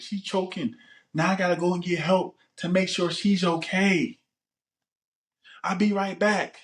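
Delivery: high, insistent mock urgency; acted alarm. Man tells the camera she is choking, high pretend alarm. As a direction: plead an emergency in a hammed-up high voice. Acting out fake choking emergency.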